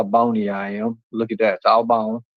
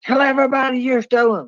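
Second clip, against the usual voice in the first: much higher mock voice of the accuser; mocking Ghost; 11 semitones higher than usual. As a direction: squeak his demand in a higher mocking voice. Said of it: "He's like".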